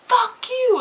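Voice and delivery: high snapped-back curse; mimicking her retort. Other driver curses back.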